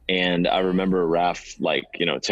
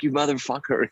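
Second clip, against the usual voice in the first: laughing insult; 7 semitones higher than usual. Retold or imitated. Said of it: "and I was like".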